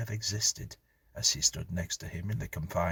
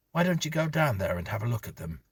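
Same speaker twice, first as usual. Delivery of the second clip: exasperated husband; 6 semitones higher, 4 dB louder, faster than usual. Acted. Exasperated husband challenging wife.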